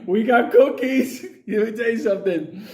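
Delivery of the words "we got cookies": high, sing-song come-on to lure them in; sugary bait voice, slow on the cookies; hammed-up friendly trap; mock sweet luring. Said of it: "we're there like".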